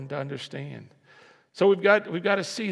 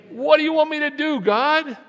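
much higher, louder and fast; congregation refrain, louder; 9 semitones higher, 8 dB louder than usual. Shown as a demonstration. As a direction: push them to shout it back. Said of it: "Let me try it again".

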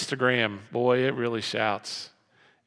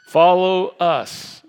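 loud, slow, higher command; insistent demand; 4 semitones higher, 10 dB louder, much slower than usual. Retold or imitated. Crowd demanding you follow it, loud slow insistence.

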